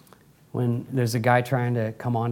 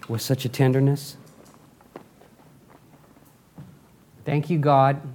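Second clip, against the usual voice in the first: congregational prayer. Real, not acted. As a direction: lead a prayer, pausing between phrases. Leads closing prayer.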